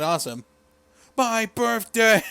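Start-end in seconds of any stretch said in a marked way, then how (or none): 1.2-2.2 slow, high callback holler; mock scream. Host revives the wrestler's scream as callback, mock screaming. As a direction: draw it out like a goofy battle cry.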